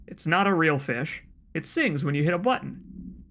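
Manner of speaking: lightly acted folksy complainer; aggrieved letter writer. Man complaining to the governor about a fish, aggrieved. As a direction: read it as a worked-up complaint.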